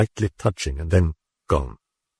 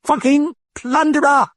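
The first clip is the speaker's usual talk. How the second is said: very high rasping British curse; rasped curse; 4 dB louder than usual. A narrator's reading. The British voice rasping at the priest. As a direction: rasp out the insult. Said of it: "it rasped".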